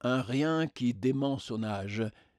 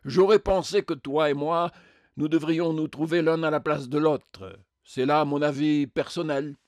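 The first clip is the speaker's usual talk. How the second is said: louder, emphatic indignant pronouncement; self-righteous colossus; 4 semitones higher, 6 dB louder than usual. Acted. Colossus says they should swap places, emphatically indignant. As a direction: declare the grievance with heavy emphasis.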